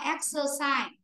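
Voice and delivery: "exercise" with a middle schwa, EX-uh-sai; schwa in middle syllable. Shown as a demonstration. Teacher explains to the class, "exercise" with a schwa in the middle. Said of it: "Âm này là âm ơ".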